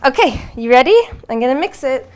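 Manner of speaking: high, loud puppy talk; dog voice. Acted. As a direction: chirp it like talking to a puppy. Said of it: "I'm so sorry about the dog voice".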